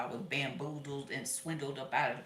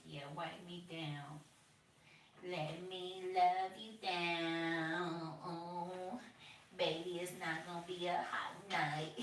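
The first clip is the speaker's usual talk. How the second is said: seductive microwave; 3 semitones higher, slower than usual. Retold or imitated. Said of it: "You're like".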